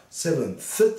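"seventh" said slowly, th ending clear; pronounce seventh. Shown as a demonstration. Teacher showing students how "seventh" sounds, slow. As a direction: draw out "seventh" with a clear th at the end. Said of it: "発音はseventhと".

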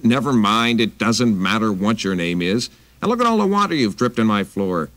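a touch of a cross housewife; scolding. Acted. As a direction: scold him for dripping. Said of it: "she scolded".

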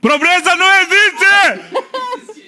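high, slow hammed-up Bolsonaro; Bolsonaro impression. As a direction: shout it as Bolsonaro. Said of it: "Vamos tirar o Bolsonaro".

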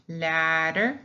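ladder with a quick tongue tap in the middle; single tapped R. Shown as a demonstration. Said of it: "that's the single pronunciation of one only".

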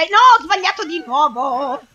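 long despairing complaint; frustrated wail. Real, not acted. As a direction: howl it out in dismay. Player fails another time.

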